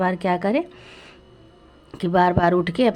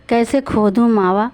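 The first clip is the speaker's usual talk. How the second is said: pleading lament. Acted. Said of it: "रोने लगी".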